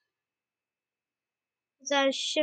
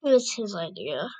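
snarled; 5 semitones lower, 3 dB quieter, faster than usual. Acted. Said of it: "Kestrel snarled".

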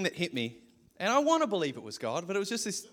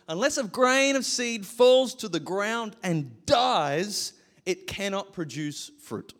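slow, solemn verse reading; measured Bible reading; scripture reading; slower than usual. Acted. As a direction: read it like holy words. Scripture read.

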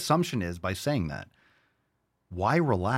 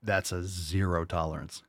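low, subdued seriousness with long pauses; upset, contained; 3 semitones lower, 4 dB quieter than usual. Real, not acted. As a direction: hold the anger in, speak low and halting. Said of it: "This gets me so upset".

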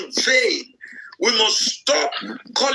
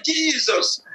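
mock startled yelp, pitched higher; acted little cry of alarm; startled exclamation; 5 semitones higher than usual. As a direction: exclaim it as if spotting a cockroach. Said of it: "When we see cockroach".

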